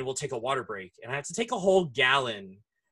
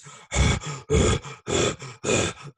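dog huffing. Retold or imitated. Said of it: "you can hear her".

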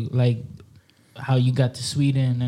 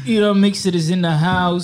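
hype announcer; 4 semitones higher, 5 dB louder than usual. Acted. Host announces guest.

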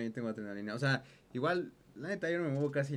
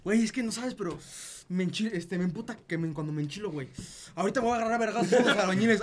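louder, higher, building worked-up rant; worked-up friend; 4 semitones higher, 4 dB louder than usual. Retold or imitated. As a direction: rise into a laughing threat. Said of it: "ese güey me dice".

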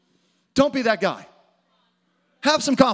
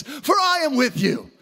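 rising preacher's call; preaching shout; 5 semitones higher than usual. Real, not acted. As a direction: raise the pitch and proclaim it. Preaching at full force.

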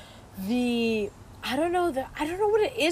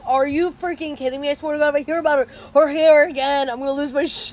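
mock exasperation, higher and quickening; retold pissed-off rant; 4 semitones higher, 4 dB louder than usual. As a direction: imitate someone fed up and about to snap. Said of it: "Aisha was so pissed".

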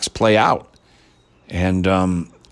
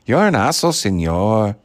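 mock Hispanic accent with senor tacked on. Vlogger's jokey take on the actress, light Hispanic accent. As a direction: lightly play a Hispanic speaker. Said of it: "sort of like Hispanic".

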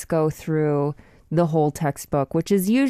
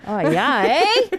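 Canadian accent; 4 semitones higher, slower than usual. Shown as a demonstration. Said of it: "for Canadian".

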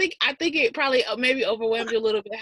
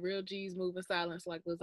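quoted lyric; 13 dB quieter than usual. Retold or imitated. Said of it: "a rapper said".

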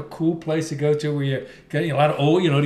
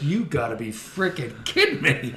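laughing disbelief. Retold or imitated. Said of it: "Beaver Haley are like".

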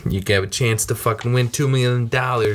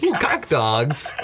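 slow, lightly voiced Mr. Bean relishing it; imitating Mr. Bean; 4 semitones higher, slower than usual. Retelling the movie to a friend, slow mock Mr. Bean. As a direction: drag out a mild mock Mr. Bean "Ooh". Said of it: "he calls them cock".

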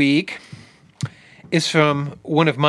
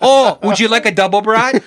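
mock Wisconsin accent; 4 semitones higher, 3 dB louder than usual. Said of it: "You're like the accent".

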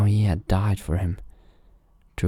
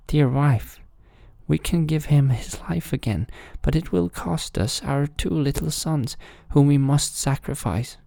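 high, earnest royal voice; solemn king speaking to the queen; grave king; 9 semitones higher than usual. A narrator's reading. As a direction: break hard news to his wife.

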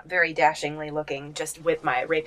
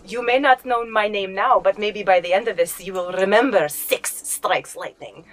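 dramatic hero line; 3 semitones higher than usual. Acted. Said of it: "she puts her short sword away and she goes".

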